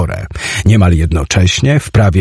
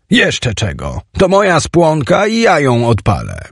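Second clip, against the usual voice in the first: indignant; 5 semitones higher than usual. Acted. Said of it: "Obruszyłem się".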